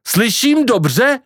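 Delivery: high, drawn-out question; incredulous exclamation. Acted. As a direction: ask it high and slow, unable to believe it. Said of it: "vykřikl Kvido". (nevěřícné, vysoké zvolání)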